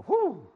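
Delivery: sudden loud, high "whew"; exclaimed whew. Acted. Reacting to one's own bad behaviour.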